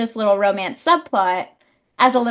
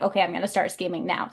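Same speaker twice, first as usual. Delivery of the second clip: quiet scheming; 5 semitones lower, 7 dB quieter, faster than usual. Retold or imitated. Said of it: "she was like".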